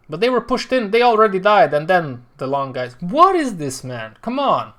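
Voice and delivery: can't believe what you're seeing; exasperated. Real, not acted. Streamer protesting a bad push to viewers, exasperated.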